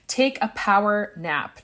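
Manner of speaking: "power" picked out with emphasis; stress on power. Real, not acted. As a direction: lean on the word "power" before "nap". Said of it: "I emphasize on the word power".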